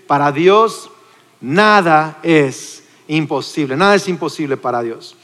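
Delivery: nada stretched long and firm, slow and solemn; emphatic slow repeat. Acted. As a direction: lean hard on nada. Preacher dwells on promise. (énfasis lento en "nada")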